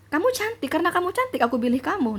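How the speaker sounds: high mock husband voice, quick on the second line; imitating husband. Wife mimicking her husband's compliment, high and mocking. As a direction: lightly ham up his sweet talk, pitched high. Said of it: "Nah, kayak gitu".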